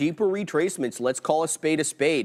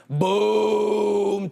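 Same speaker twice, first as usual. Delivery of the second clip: excited; 5 semitones higher than usual. Real, not acted. Excited call as order fills.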